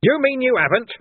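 loud, high outraged roar; booming roared question. Acted. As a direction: roar it at him. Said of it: "Vimes roared".

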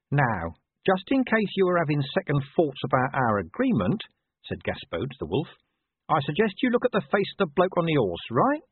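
a hint of a scrappy mutt sizing up a wolf; cheeky talking dog. Gaspode the dog talks.

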